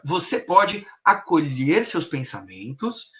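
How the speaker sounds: slow "acolher seus pensamentos", easing off; gently spaced "Você pode", then draw out ACOLHER; hypnotic suggestion. Shown as a demonstration. Hypnotist suggests accepting thoughts, slow fade. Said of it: "trazendo um fade out pro final".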